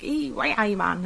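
a light Geordie impression of TV kids; Geordie accent. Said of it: "really strong Geordie accents".

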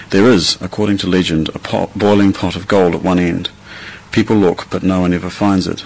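careful, clear read-aloud; reading a set passage. Shown as a demonstration. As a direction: read it like a test text. Reads the standard passage.

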